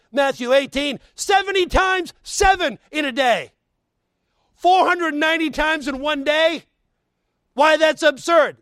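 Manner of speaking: high, loud preacher's exclamation; forceful preaching. Real, not acted. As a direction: preach it out with rising incredulity.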